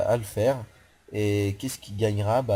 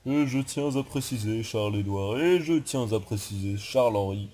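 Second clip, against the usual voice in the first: lightly put-on prim voice; a hint of a fussy announcer listing names; mock formal aside. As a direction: parody your own pet phrase, a touch affected. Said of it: "vous m'entendrez souvent dire".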